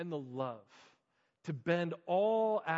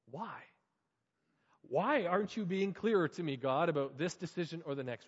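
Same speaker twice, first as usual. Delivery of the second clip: anguished pleading; 4 semitones higher, 5 dB louder than usual. Acted. Anguished prayer questions to God.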